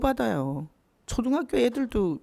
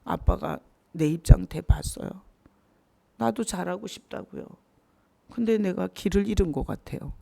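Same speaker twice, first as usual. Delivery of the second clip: sample prayer. Shown as a demonstration. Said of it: "그런 걸 쏟아내야 되잖아".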